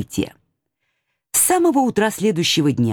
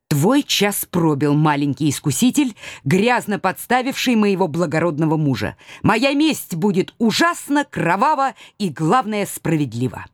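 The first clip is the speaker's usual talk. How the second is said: cold vengeful menace. Acted. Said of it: "холодный рассудочный гнев".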